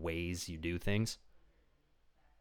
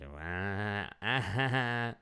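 fake sob; much slower than usual. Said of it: "it was so intentional".

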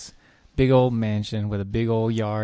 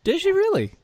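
whispering. Real, not acted. Replies in a whisper.

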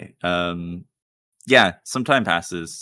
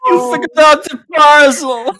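villain voice; 15 dB louder, slower than usual. Acted. Villain gloats, table laughs.

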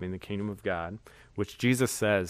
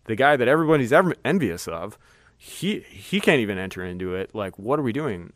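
nervous Peter; 5 dB louder than usual. Retold or imitated. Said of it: "he got super nervous. He's like".

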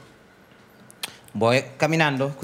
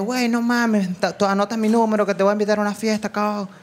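Mexican friend imitated; 3 semitones higher than usual. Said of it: "ese chamo me dijo".

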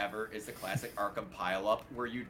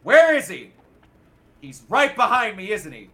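rising higher and louder, panicky; a thug who gets more spooked; nervous henchman; 6 semitones higher, 8 dB louder than usual. Retold or imitated. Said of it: "they'll just be like".

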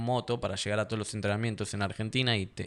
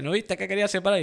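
yelling at him; 9 semitones higher, faster than usual. Retold or imitated. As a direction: yell at the knocked-out man in frustration. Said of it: "y gritándole". (grito relatado, más agudo)

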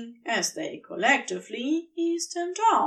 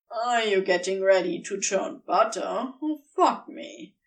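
snarky; 3 semitones lower than usual. Acted. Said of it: "Crowley snarked".

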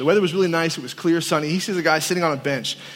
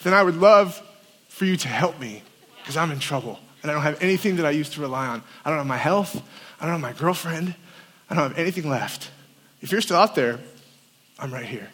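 choked-up retelling; 3 semitones lower, 3 dB quieter than usual. Retold or imitated. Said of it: "I'm gonna get emotional about it".

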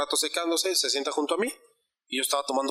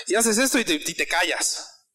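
imitating stern dad. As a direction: play the strict dad who shows love by giving orders. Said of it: "mi papá demuestra amor de". (imitando a un papá estricto que da órdenes, alargando despacio el final)

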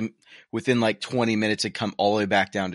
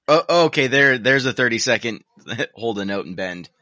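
excited; 7 dB louder than usual. Real, not acted. Excited, laughing.

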